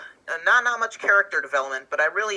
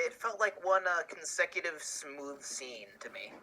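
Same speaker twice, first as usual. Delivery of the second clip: whisper; 11 dB quieter than usual. Real, not acted. Quiet remark during review chat.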